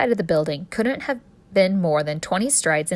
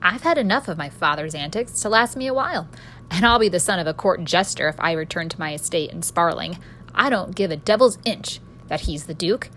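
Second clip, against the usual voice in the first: recited speech. Acted. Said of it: "I recited".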